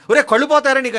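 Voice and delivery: loud, high, cursing shout; furious curse. Retold or imitated. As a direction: hurl the curse at the sorcerer. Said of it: "శాపమే ఇచ్చేశాడు". (కోపంతో గట్టిగా శపిస్తూ)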